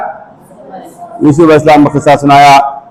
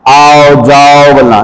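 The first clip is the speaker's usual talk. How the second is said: slow demo; much slower than usual. Shown as a demonstration. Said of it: "ये अल्फाज सही नहीं है".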